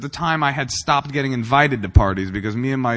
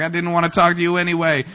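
higher, dismissive retort in imitation of a snubbed teen; mock defensive comeback; 5 semitones higher, faster than usual. Teen self answering the girl who turned him down, mock defensive. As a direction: act out a teenager brushing off rejection. Retold teen brushing off rejection.

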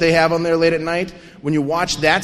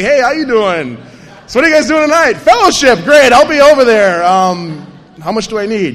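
loud, higher, eager to score; hustling buyer, much louder; eager loud hustle; 4 semitones higher, 9 dB louder than usual. Retold or imitated. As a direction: sidle up and push hard for drugs. Chatting up dealers.

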